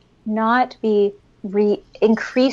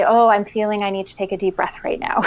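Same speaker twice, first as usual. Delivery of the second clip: put-on modelling to kids; faster than usual. Shown as a demonstration. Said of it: "I'll say".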